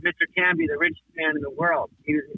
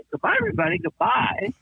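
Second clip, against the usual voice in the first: much higher sing-song goodbye; Canby catchphrase; 12 semitones higher than usual. Retold or imitated. The creator showing his friend how it's really done, high silly goodbye. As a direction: do the dopey millionaire farewell full out. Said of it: "I died laughing".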